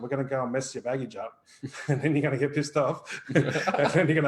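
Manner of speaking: words broken by short real laughs; chuckling while talking. Real, not acted. Teasing listeners that readings will upset them, chuckling. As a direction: let little laughs slip between phrases. Jokes about messing up baggage.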